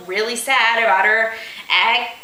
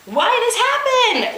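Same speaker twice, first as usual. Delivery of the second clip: agonized cry; 13 semitones higher than usual. Acted. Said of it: "agonizing, painful".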